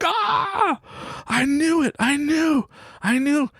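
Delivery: put-on very high, thrilled kid voice; triumphant son. Son triumphant to dad, high thrilled child voice. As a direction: crow it like a kid proven right.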